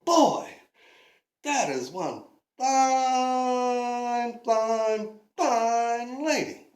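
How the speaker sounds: slow, drawn-out fine, fine, fine; Davy watching her walk away, slow and savouring; savouring admiration. Acted. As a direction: relish every fine. Davy ogles the woman.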